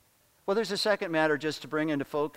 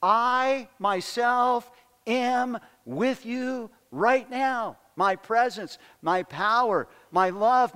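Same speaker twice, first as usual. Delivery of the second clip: slow, weighty stress on every "I am with you"; emphatic Jesus quote; 4 semitones higher, slower than usual. Retold or imitated. Preacher voicing Jesus' promise to his followers, emphatic and slow. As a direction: lean hard on "myself" and "right now". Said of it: "is emphatically saying".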